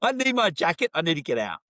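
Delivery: very high-pitched, awkward retold exit line; embarrassed. Customer making an excuse to leave the pharmacy, mortified and high-pitched. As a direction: squeak it, as if desperate to escape.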